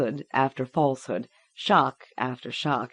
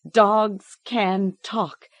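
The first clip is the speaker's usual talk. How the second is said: slow final lie; 6 semitones higher, 3 dB louder, much slower than usual. A narrator's reading. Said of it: "she said".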